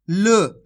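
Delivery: ल as a short half consonant with a brief schwa; teacher isolating a halved ल; half-sound L. Shown as a demonstration. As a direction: sound out ल on its own as a half letter. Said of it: "आपको उसका उच्चारण आधा करना है".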